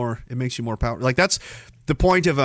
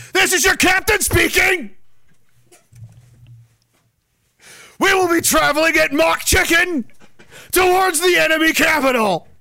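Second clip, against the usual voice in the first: silly clown captain; 9 semitones higher than usual. Pretend. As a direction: boom it like a cartoon captain. Playing train captain announcement.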